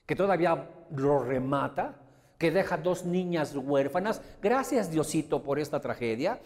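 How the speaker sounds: loud, bitter and sarcastic, shouted at the mother; furious outburst. Retold or imitated. Brothers shouting at their mother over her wish to thank God, furious. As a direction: hurl the thanks back at her like an accusation. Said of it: "Los hermanos explotan".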